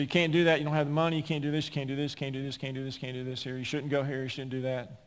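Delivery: repetitive nagging, trailing away; mock naysayer rattling off objections; mimicked naysayers.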